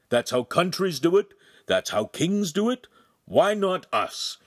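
high, lively persuading; eager pitch. A narrator's reading. Master pitching the marriage plan, eager and high. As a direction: sell the plan with gusto.

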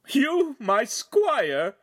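high, loud, drawn-out scoff; shouted in a laugh. A narrator's reading. Noble mocking the would-be squire, high derisive shout. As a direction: scoff incredulously, stretching the words. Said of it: "Feltrino shouted in a laugh".

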